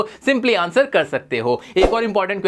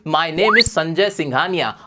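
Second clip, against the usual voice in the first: slow model sentence; 4 semitones lower, slower than usual. Shown as a demonstration. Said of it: "तो आप बोलोगे".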